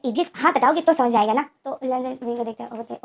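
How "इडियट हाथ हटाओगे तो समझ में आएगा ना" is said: loud, irritated snap; exasperated outburst. Acted. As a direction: let the annoyance burst out louder. Annoyed at hand over mouth. (झुंझलाकर ज़ोर से)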